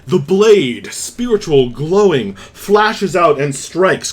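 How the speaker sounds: suspenseful narration of an attack; dramatic scene setting. Acted. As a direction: describe the strike with punchy drama. Game master describes the sword attack.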